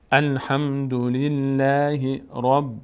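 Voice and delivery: slow, drawn-out chanted reading; measured teacher's recitation with long vowels; Quran recitation model. Shown as a demonstration. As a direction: recite it syllable by syllable, evenly.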